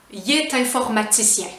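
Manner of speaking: "il est" said "yé", t linked to "informaticien"; contraction with liaison. Shown as a demonstration. Teacher showing the vowel rule, liaison pronunciation. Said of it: "je fais la liaison".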